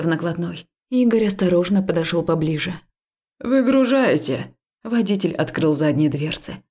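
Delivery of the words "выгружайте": calling out. A narrator's reading. Driver calling to unload.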